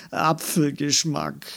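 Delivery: playful gleeful exclamation; delighted call. A narrator's reading. Andi tastes imaginary green wine gum, delighted call. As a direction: announce the flavour with relish. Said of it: "rief sie".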